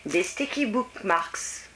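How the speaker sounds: slow, careful English accent on the product name; self-conscious English accent. Shown as a demonstration. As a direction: attempt the English words with a French speaker's care. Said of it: "attention mon accent anglais".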